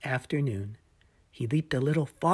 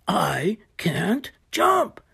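slow worried whisper; 5 semitones higher, 5 dB louder, much slower than usual. Acted. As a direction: breathe it out, slowly. Hippo despairs under his breath.

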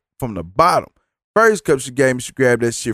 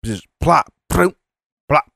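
imitated tray plops; 3 semitones higher than usual. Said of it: "she come bring me my shit".

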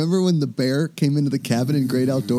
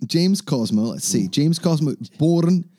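put-on Scottish accent; 3 semitones higher than usual. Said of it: "Are you doing this Willie the groundskeeper".

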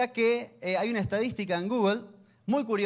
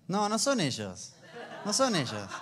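laughing. Real, not acted. Laughing denial of couple guess.

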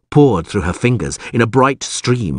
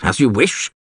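higher, exasperated concession; shouted; 4 semitones higher than usual. A narrator's reading. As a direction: snappish giving in. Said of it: "he shouted".

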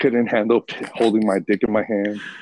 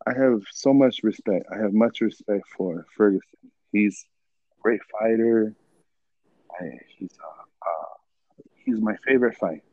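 mimicking Khabib's accent; 3 semitones higher than usual. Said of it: "he's like".

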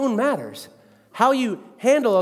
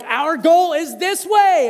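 slow, raised coaching call; coach instructing; 8 semitones higher, 5 dB louder, slower than usual. Retold or imitated. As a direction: spell it out for the team. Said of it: "We're like".

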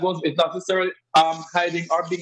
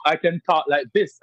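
perfect English in a strong Jamaican accent. Shown as a demonstration. Jamaican guest proving accented speech is English, strong Jamaican accent. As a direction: lean fully into the Jamaican accent. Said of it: "I'm talking with a very strong accent".

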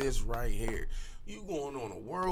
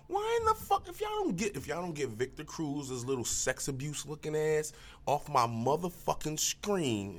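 mock yell at the TV; 6 semitones higher than usual. Yelling at TV screen.

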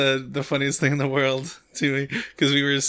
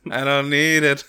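SpongeBob; 4 dB louder than usual. Acted. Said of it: "SpongeBob references aside".

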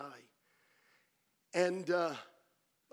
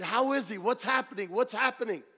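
urgent questioning; 3 semitones higher, 4 dB louder than usual. Retold or imitated. Retold anxious questioning after the service.

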